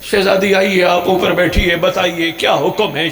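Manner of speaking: loud, eager welcome. Acted.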